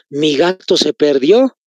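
"Mi gato se perdió" with the end rising; seeking a response. Shown as a demonstration. Teacher announcing it to the class, rising tune that seeks an answer. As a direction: lift "perdió" at the end, inviting a reply. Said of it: "¿qué estoy queriendo? Que ustedes me respondan".

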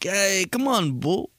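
mock Italian-American, last letters left off; Italian-American dropped endings. Imitating Italian people calling a buddy, mock Italian-American accent. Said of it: "don't say the end of each word".

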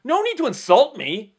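imitating an offended shout, high and loud; mock the driver's indignant yell; loud, high retold protest; screaming driver. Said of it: "he starts screaming at me".

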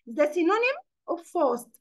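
slow, deliberate question; slow dictation. Shown as a demonstration. Teacher asking the class a synonym question, slowly. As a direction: lay each word out slowly.

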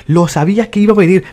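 annoyed second take; exasperated repeat. Real, not acted.

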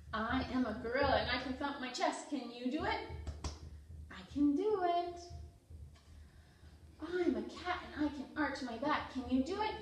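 lively picture-book read-aloud for toddlers; reading to children. Acted. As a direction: read it out to little kids with energy.

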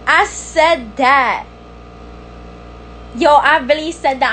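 very slow, drawn-out boast; savouring it, word by word; proud gloating. Real, not acted. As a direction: stretch out every word proudly. Still celebrating her Spanish sentence.

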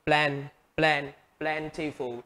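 plan drilled alone, then plentiful stressed at the front; stress on first syllable. Shown as a demonstration. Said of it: "nhấn vào âm đầu tiên".

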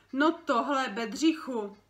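loud, high gasp of surprise; mother cries out, loud and high, at the puppy; shocked cry. Acted.

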